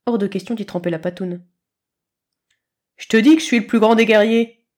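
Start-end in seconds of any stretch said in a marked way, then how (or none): 3.0-4.7 loud, boastful kitten hiss; arrogant kitten. A narrator's reading. Kitten brags loudly to the leaf pile, arrogant. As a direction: puff up and brag like a tiny warrior. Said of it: "le feulement de chaton. Et son ton arrogant".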